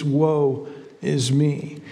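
very slow, low, broken-down woe is me; humbled lament. Retold or imitated. Isaiah confessing before God, slow and humbled. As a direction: let it sink, slow and low in contrition.

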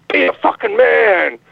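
slow, stretched-out slogan; mock ad slogan. Caller retelling a beer can crushing him, mock slogan. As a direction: draw it out like a commercial's punchline.

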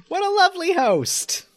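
high, sugary compliment; gushing hostess voice. Retold or imitated. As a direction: keep the mock gracious voice. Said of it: "It's like".

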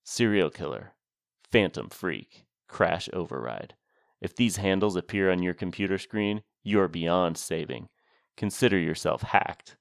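lightly played movie trailer announcer. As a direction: read it like a half-laughing trailer voice. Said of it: "I was trying to do an announcer voice, but it was more of a laughing announcer voice".

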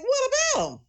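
what about him, jumping way up in pitch; a startled, clueless question; retold surprise. Replaying her reply to her daughter, surprised.

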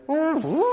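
high mouth-made spaceship whoosh; hyperspace whoosh. Retold or imitated. Preacher joking about Star Wars hyperspace, imitated whoosh. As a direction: imitate a ship jumping to hyperspace.

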